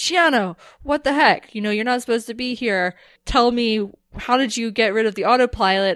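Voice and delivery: acted, heated, angry scolding shout. Retelling a scene where Dargo yells at Chiana: imitating Dargo yelling. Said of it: "as he's yelling at her".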